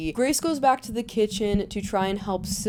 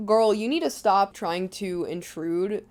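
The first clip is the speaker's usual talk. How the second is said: slow, blunt mock scolding; mock mom laying it down slowly; blunt retelling; slower than usual. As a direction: retell it as a frank telling-off. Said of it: "She says it nicer".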